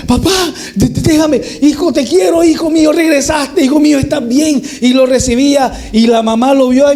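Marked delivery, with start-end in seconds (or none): 0.1-4.6 raised, tearful joy of a father; joyful father. Acted. Father welcoming his lost son, higher and joyful. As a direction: hug him and pour out love.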